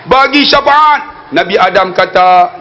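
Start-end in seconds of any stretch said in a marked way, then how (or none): 0.1-1.2 slow, drawn-out plea; acted pleading. People begging prophet Adam for intercession, acted pleading. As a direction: plead for intercession in long, sustained phrases.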